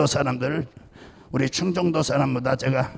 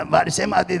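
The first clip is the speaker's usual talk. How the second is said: laughing; 3 semitones higher than usual. Real, not acted. Laughing at own anecdote.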